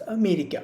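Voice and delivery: അമേരിക്ക with a light first അ and stress on മേരിക്ക; stress after first syllable. Shown as a demonstration. Teacher repeating the example for students, അമേരിക്ക stressed after the first അ. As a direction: go easy on അ in അമേരിക്ക, stress what follows. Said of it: "ബാക്കിയുള്ളതിനാണ് stress".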